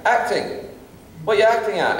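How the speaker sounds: high, incredulous Scottish father; baffled Scottish dad. Retold or imitated. Father questioning son's acting career, incredulous Scottish voice. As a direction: scoff at the idea of acting.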